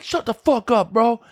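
retold indignant protest, pitched high; upset. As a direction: imitate a flustered suspect, voice jumping way up. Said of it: "The guy gets so fucking upset".

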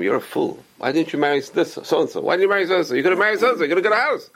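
rising, scolding friends; mock scolding. Friends mocking him for marrying a poor rabbi's daughter, scolding.

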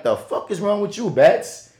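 talking to himself, baffled by his own tears, incredulous; mock self-scolding. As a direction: scold yourself in disbelief, pitch climbing. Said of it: "And I'm like".

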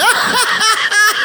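high cackling laugh. Real, not acted. Telling a mock story about the beer store, high laugh.

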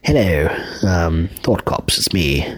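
put-on British announcer greeting; hammed-up British accent. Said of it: "with a British accent now".

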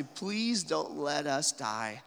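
slow, drawn-out plea; crying out. Acted. Drowning sailors cry out to God, pleading. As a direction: plead slowly, with understated desperation. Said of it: "They cry out to God and say".

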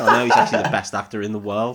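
quick laughing turnaround; brisk amused reversal; fast laughing quote. Retold or imitated. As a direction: rush it out through a laugh. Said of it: "and then he was just like".

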